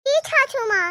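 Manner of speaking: "छाछू" with chh sounds for s; lisping bride. Acted. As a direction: lisp "छाछू माँ" as chhaa-chhoo. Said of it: "क्या तुम तोतली हो?".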